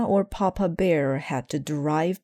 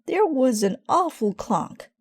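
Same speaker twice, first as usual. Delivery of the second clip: high, loud worried voice; alarmed shout; 8 semitones higher, 4 dB louder than usual. A narrator's reading. Gran alarmed on the phone after hearing the clunk. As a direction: sound startled.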